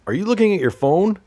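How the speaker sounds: high, loud scolding question; a hammed-up angry yell at the listener; mock yelling. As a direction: bust them for checking their phone. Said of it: "when I was yelling at you".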